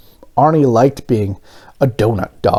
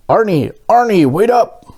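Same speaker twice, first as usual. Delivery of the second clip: mild mock yell, a bit higher; calling to Arnie as he walks away, mildly raised; calling after him; 9 semitones higher than usual. A narrator's reading. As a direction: call out after the departing donut, lightly. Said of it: "yelled Mister Bing".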